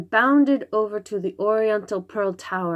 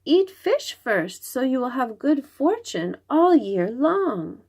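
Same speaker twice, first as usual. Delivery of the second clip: put-on little girl voice; 7 semitones higher than usual. Little girl Xingling speaks.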